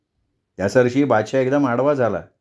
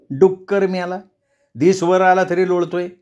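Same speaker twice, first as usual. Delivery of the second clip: scolding mother; 5 semitones higher than usual. Acted. Mother scolding lazy son.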